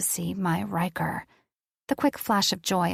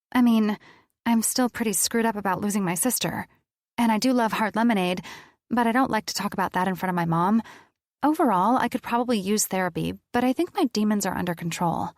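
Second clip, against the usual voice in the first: nervous babble; 3 semitones higher, faster than usual. Acted. Girl rambles back at angel.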